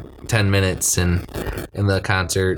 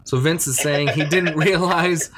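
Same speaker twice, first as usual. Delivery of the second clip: higher voice breaking into a laugh; 6 semitones higher than usual. Real, not acted. Amused by a sad movie scene, laughing. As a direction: laugh through the retelling. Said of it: "but it makes me laugh".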